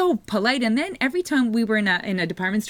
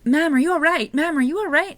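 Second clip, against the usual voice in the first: polite security guard; 6 semitones higher than usual. Retold or imitated. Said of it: "I hear this man going".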